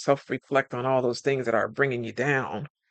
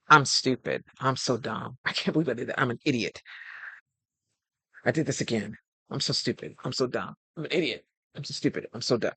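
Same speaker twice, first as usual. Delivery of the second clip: self-judgment; 4 dB quieter than usual. Retold or imitated.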